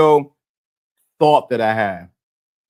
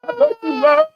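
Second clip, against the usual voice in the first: very high, hammed-up blubbering; crying. Crybaby pleading with his girl, mock crying. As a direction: sob it out in a squeaky mock wail. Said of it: "where the crying".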